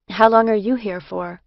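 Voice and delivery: innocent, curious, brighter question. A narrator's reading. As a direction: ask it naively, no idea. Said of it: "I asked innocently".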